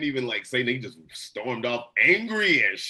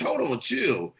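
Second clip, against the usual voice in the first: high-pitched; 11 semitones higher, slower than usual. Retold or imitated. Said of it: "He's like".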